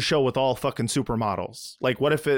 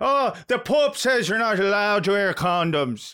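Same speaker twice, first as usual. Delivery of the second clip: fake, put-on Irish accent, higher pitched; 7 semitones higher than usual. Imitating a TV character's excuse, put-on Irish accent. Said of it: "am I doing a good Irish accent?".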